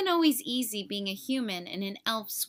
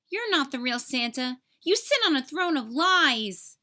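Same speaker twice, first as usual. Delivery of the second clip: indignant accusation; 4 semitones higher, 5 dB louder than usual. Acted. Buddy accusing the fake Santa.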